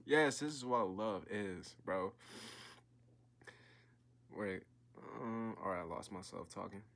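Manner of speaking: earnest, measured read-aloud of a novel; story reading. A narrator's reading. Reading a novel passage aloud to his viewers, earnest storytelling voice. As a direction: read the passage to draw the listener in.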